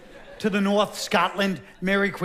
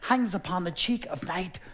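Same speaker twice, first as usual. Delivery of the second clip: lovesick king; 4 dB quieter, slower than usual. Acted. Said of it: "The king would just stare".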